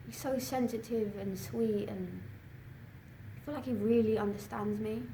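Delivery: soft, smitten confiding; tender and hushed. Acted. Student confiding about her new boyfriend, softly smitten.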